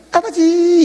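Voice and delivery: high, drawn-out mock prayer call; hammed-up, sappy plea in a high voice; cheesy prayer. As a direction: overdo a syrupy cry to the Father. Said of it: "이렇게 안 해".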